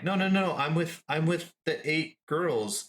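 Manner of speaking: mock-protest to a bouncer; hurried protest.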